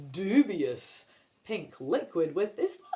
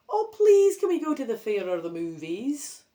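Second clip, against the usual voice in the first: high, loud begging; pleading child; 4 semitones higher, 7 dB louder than usual. Acted. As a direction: beg grandma sweetly.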